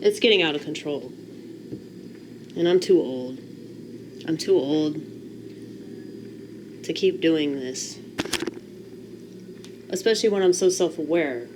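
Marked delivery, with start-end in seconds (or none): 2.6-8.0 much softer, worn-down admission; quiet confession. Real, not acted. Vlogger admitting his hoarding to viewers, quiet and weary. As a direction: let it drop to a tired, soft confession.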